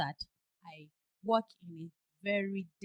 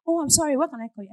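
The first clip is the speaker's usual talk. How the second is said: calm tone; 5 semitones higher, 9 dB louder, faster than usual. Shown as a demonstration. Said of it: "This is my tone".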